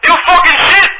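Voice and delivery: put-on high, loud Dominican accent shouting in broken English. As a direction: yell furiously in a Dominican accent. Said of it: "I'll be talking in broken English".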